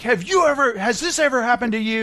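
a hint of a cheesy TV lawyer ad; lightly voiced injury-lawyer pitchman; lawyer commercial voice. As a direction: pitch it like a late-night lawyer spot. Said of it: "you know those lawyer commercials".

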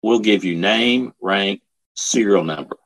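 retold stern sergeant, deliberate and final. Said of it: "said very sternly".

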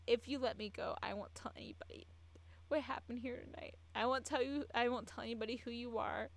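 acted plea, rising in pitch; imitating a frightened bargain; pleading. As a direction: beg for your life in a retelling. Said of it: "Stephen just started begging".

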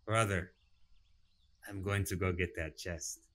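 drowsy, half-asleep voice; sleepy. Acted. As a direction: mumble it like just woken. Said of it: "very sleepily tug".

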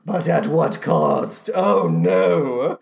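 low, slow theatrical regret; mock dread. Host rueing a kept promise, low mock dread.

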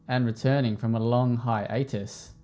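slow drawn-out ring announcer intro; boxing ring announcer. Shown as a demonstration. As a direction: announce the fighter's name, stretching it out. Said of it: "That's my ring announcer voice".

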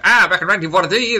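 put-on old-time gangster newsreel voice; fast old-time radio newsman; Walter Winchell. Shown as a demonstration. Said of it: "watch the Winchell, Walter Winchell".

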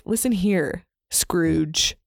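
lightly voiced ghostly Littlefinger; a hint of a ghostly Littlefinger. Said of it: "some ghostly Littlefinger voice".

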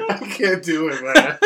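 real laughter running through the words; laughing, giving up. Real, not acted. Quitting his own impression for the hosts, helpless laughing. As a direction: try to talk through a laughing fit.

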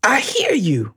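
high, eager answer to God; a servant answering quickly, ready; eager Ananias. Acted. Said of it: "He said".

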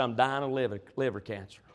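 very low and soft, subdued; retold dying confession. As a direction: let the voice sink as you relay his news. Friend tells he is dying.

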